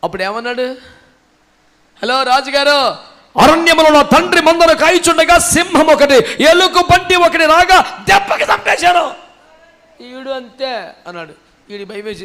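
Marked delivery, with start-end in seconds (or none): 2.0-9.1 loud, raised-pitch boast to a king; proud, shouted report; bold boasting. Acted. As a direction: declaim the heroic feat at full voice. Acting David boasting to the king.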